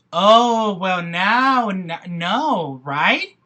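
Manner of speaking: loud, shocked exclamation; outraged outburst. Real, not acted. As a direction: burst out in real outrage. Outraged reaction to the described abuse.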